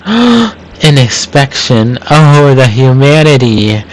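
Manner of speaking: slow, hammed-up mock horror; milk the fake surprise; mock shock. Gene fakes surprise at the inspection, hammed-up horror. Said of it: "Dramatically gasps".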